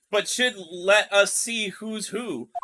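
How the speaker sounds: slow attempt at a Southern woman's accent; shaky-footed Southern accent attempt. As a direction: read it slowly with a put-on Southern lilt. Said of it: "I have to say it in her voice".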